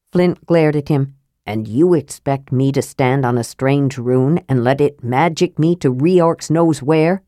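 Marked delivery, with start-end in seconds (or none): 1.5-7.2 low, gruff dwarf voice; grumbling dwarf. Acted. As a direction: grumble like a skeptical old dwarf. Flint grumbles.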